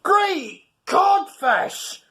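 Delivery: slow, high, loud frightened yell; scared yell. Acted. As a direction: cry out in terror. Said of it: "yelled Craddock with quivering lip".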